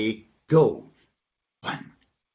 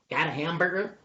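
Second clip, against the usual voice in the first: higher-pitched asking voice; hopeful question; 4 semitones higher, 4 dB quieter than usual. Acted. Donkey quizzes dog about food, high hopeful question. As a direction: lift it up hopefully.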